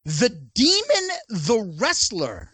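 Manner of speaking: slow, drawn-out title intro; dramatic announcement. Acted. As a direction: announce it like a big reveal.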